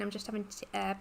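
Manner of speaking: swallowing between words; gulping a drink. Real, not acted. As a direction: talk right after gulping water. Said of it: "Sorry if you can hear gulping".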